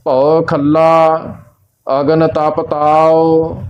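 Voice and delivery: slow, measured recitation on a level tone; scripture recitation. Acted. Teacher reciting Gurbani for learners, slow measured recitation. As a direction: recite line by line, drawing out the vowels.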